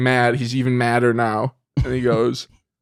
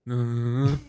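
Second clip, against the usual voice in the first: chest-thump hum; 7 dB quieter than usual. Acted. Leo and McConaughey do their chant, imitated hum. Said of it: "they do the thing from Wolf of Wall Street".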